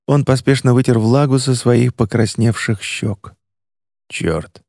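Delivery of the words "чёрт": low, hushed, teary swear; quiet tearful curse. Acted. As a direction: mutter it through tears. Tobias caught crying, startled.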